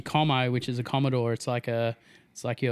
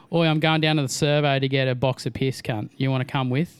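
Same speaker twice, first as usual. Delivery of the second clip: Australian accent. Shown as a demonstration. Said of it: "that's pretty much it".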